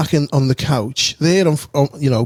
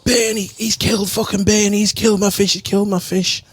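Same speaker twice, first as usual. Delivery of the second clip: imitating a frantic older brother, much higher; high, panicked lament over the dead pet; distraught wailing; 6 semitones higher than usual. Older brother wailing that the fish was killed, high and frantic. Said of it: "he's going".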